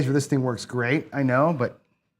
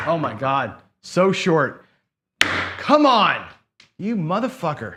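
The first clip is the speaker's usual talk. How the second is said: loud, higher curse at the dice; real frustrated outburst; 4 semitones higher, 5 dB louder, slower than usual. Real, not acted. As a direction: yell at the bad roll. Losing roll at craps.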